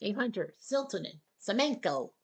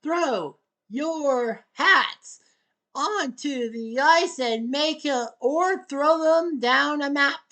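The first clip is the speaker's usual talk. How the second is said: slow, louder announcer call; hat-trick call; 4 semitones higher, 4 dB louder, slower than usual. Acted. Announcer urging fans after a hat trick, slow and louder. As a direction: sell the hat trick big.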